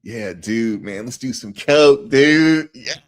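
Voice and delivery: high, loud mock frat-dude holler; imitated party bro. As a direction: whoop it up like a partying dude, ending in laughter. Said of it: "That's how they talk".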